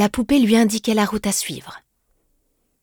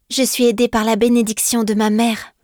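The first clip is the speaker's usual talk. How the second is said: put-on girl answering; 4 semitones higher than usual. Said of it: "répondit la jeune fille".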